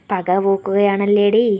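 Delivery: slow, low muttered grudge; through gritted teeth. Acted. Nandan accuses her of taking revenge, slow through gritted teeth. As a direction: grind it out slowly through teeth. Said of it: "Nandan പല്ല് കടിച്ചുകൊണ്ട്".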